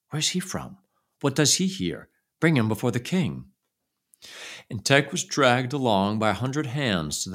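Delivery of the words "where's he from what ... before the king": crowd crying out. Acted.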